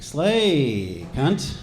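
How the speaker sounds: drawn-out, punchy cheer; hammed-up empowering compliment; mock hype. Male feminist hypes up a woman, mock-enthusiastic. Demonstrates hype phrases for women.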